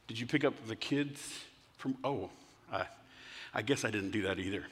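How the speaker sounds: low, soft, trailing into admission; sheepish realization. Acted. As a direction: realize the slip and mumble it. Husband realizes he forgot the kids.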